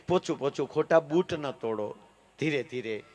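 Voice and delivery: very quiet, gentle mock officer; over-soft officer. Too-mild officer calms a saluting constable, very soft. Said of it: "એ અધિકારી નરમ ન હાલે".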